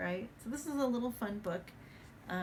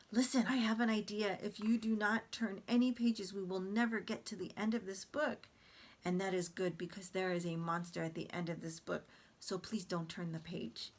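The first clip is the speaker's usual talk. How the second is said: Grover voice. Acted. Grover begging readers not to turn, lightly voiced. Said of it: "Grover is very exaggerated".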